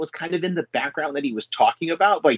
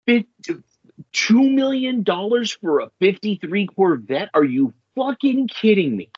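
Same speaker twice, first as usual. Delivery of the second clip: are you fucking kidding me punched in outrage; incredulous outburst; 6 semitones higher than usual. Real, not acted. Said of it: "outraged at car price".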